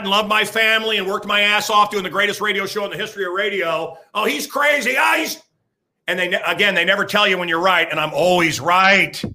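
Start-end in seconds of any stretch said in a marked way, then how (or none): 4.1-5.4 mock critic. Mocking critics again.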